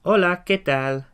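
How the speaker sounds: teacher modelling the phrase slowly; slow Spanish model. Shown as a demonstration. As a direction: spell out "Hola, ¿qué tal?" for learners. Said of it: "So to put the two together".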